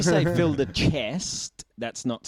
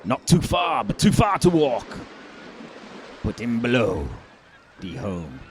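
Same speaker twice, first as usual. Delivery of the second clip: pirate voice; 4 semitones lower than usual. Pretend. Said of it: "have you got a pirate voice".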